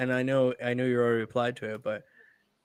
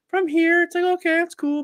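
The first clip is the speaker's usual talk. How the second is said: excited realization; 3 dB louder than usual. Retold or imitated. Mimicking a newbie tattooer admiring his own work, pitched up high. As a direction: act out the pleased surprise of a beginner. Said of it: "you end up going like".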